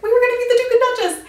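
high, loud, fast gushing; excited. Retold or imitated. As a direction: blurt it out in a thrill. Disappointed excitement retold.

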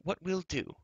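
high, bright-eyed scheming; eager, hurrying on. A narrator's reading. Girl plotting an outing after the feast, eager. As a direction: launch eagerly into a secret plan. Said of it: "Elenwy hurried on, her eyes sparkling".

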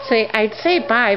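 talking through stuffed cheeks; mouth full. Real, not acted. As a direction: speak with a mouthful of chocolate. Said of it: "my mouth is stuffed with chocolate".

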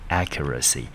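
Accuracy said alone, stress on the opening AC; stress on first syllable. Shown as a demonstration. Teacher repeats the word for learners, Accuracy stressed on first syllable. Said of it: "中音落在第一个音节".

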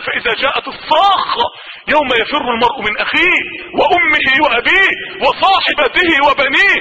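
slow chanted verse; Quran recitation. Acted. Preacher reciting the Day of Resurrection verse, chanted. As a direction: intone the verse with weight.

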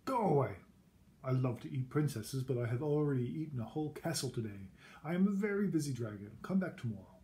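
loud, booming dragon brushing her off; a big busy dragon shooing her away; grumpy dragon. Acted. Dragon shouting at Elizabeth from the door, booming. Dragon voiced in read-aloud story.

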